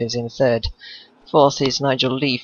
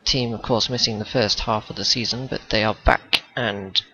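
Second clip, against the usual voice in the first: glitchy, metallic voice over a bad line; robotic voice. Real, not acted. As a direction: voice breaking up like a robot. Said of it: "'cause you sound robotic".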